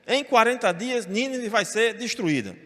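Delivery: slow, stern proclamation of doom; a prophet preaching doom with anger; angry preaching. Retold or imitated. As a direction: slowly hammer out the doom warning. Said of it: "prega com raiva".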